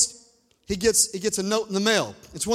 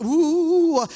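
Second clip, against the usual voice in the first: high, loud "ooh"; excited whoop; 8 semitones higher, 6 dB louder than usual. Real, not acted. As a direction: let out a preacher's joyful whoop. Preacher overcome mid-story, whoops.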